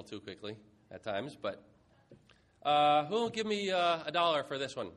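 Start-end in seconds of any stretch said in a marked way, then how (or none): 2.6-4.9 loud auction call for bids; auctioneer voice. Pretend. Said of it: "my little auctioneer thing".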